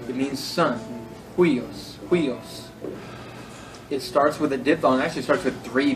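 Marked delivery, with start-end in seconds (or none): 1.4-2.7 "Huios" begun with an English H, said as a model; teacher modelling the H in "Huios"; rough breathing. Shown as a demonstration. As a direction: demonstrate "Huios" twice, aspirated at the front. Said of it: "rough breathing mark is pronounced like the English H".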